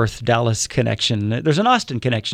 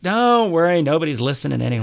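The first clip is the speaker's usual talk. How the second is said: dismissive movie announcer; 4 semitones higher than usual. Acted. Announcer's reply in movie scene.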